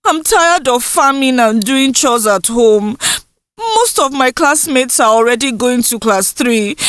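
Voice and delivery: lightly voiced young girl, pleading; a hint of a girl begging her mother; voiced daughter Indusa.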